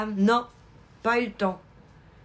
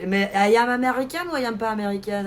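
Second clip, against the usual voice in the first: put-on French accent; 2 semitones higher, 6 dB louder than usual. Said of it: "avec le bon accent français".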